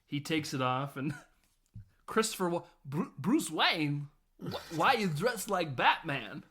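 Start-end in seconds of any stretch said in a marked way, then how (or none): 2.1-6.4 surprised. Retold or imitated. Walken confused at the reveal.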